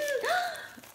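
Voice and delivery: sharp high delighted gasp; excited gasp. Real, not acted. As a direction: gasp as the gift is revealed. Opening the gift.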